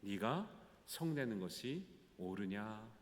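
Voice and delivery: soft, slow tender asking; quiet fatherly "네가 성내는 것이 옳으냐?"; gentle question. Acted. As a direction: coax him kindly, as God calming Jonah. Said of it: "친절하게, 부드럽게 묻고 있어요".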